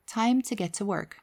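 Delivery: calm, controlled inner voice, firm yet kindly; firm but kind. Acted. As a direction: steer yourself kindly but firmly. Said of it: "very strong, very firm, but kind voice".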